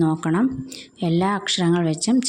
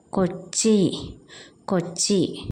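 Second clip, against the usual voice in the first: whispered word; 3 dB quieter, slower than usual. Shown as a demonstration. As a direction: say കൊച്ചി in a whisper. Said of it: "teacher demonstrating the word". (കൊച്ചി മന്ത്രിച്ച്)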